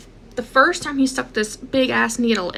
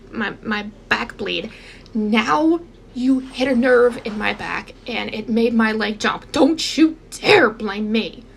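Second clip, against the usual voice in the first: retold angry telling-off. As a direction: scold them firmly, word by word. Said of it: "I was so mad".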